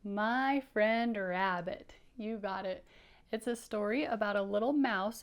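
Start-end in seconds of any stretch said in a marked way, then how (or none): 0.0-1.9 slow, word by word; drawn out title for kids; slow clear reading. Shown as a demonstration. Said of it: "Can you read that?".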